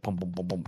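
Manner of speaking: low, soft thudding bums; imitated heartbeat. Telling how nervous he was meeting him, soft imitated heartbeat. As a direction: quietly mimic a pounding heart. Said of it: "my heart was like".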